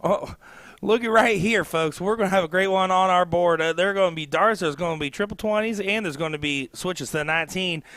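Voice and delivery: bad put-on Southern US accent commentary; country accent. Co-commentator calling darts in a hammed-up Southern US accent. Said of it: "that's enough of that country accent for me".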